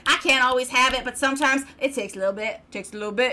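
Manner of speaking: put-on proud amateur Southern accent. Host boasting of the found accent, mock Southern. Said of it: "I found the accent".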